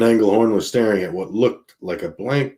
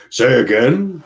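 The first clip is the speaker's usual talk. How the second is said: sharp demand, pitched up; 4 semitones higher, 4 dB louder than usual. Acted. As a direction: insist he repeats it. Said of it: "Driscoll demanded".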